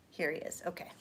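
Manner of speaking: ordinary talk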